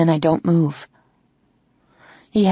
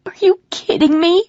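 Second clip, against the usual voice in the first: high, loud disbelieving scream; 12 semitones higher, 4 dB louder than usual. Acted.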